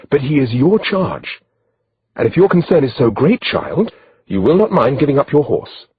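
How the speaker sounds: lightly voiced stern royal lady; stern older noblewoman. A narrator's reading. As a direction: put the girl in her place. Older lady rebukes maiden.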